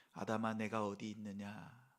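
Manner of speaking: low, soft, tender call; caring, not rebuking. Retold or imitated. Preacher repeats God's question to Adam, soft and caring. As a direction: ask it gently, voice dropped. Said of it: "그런 의미에서".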